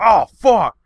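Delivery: high, loud startled yell; sudden high-pitched shout, retold; imitated scream. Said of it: "he, like, screams".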